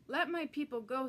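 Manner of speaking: God demanding Pharaoh free his people; firm divine demand. Acted. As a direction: command it like God. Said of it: "said God".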